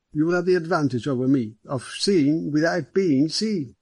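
a hint of an affable senior policeman; genial police superintendent. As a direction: play the courteous police chief with a light touch. Narrator voices the superintendent.

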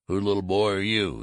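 kindly. A narrator's reading. Colonel asks the small boy who he belongs to, kindly. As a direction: talk down kindly to a small child. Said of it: "he demanded kindly".

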